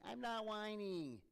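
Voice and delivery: high, loud, slow whine; whining kid. Acted. Kid in the car denying the whining, loud whine. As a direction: whine it back like a kid in the back seat. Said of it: "They're whining".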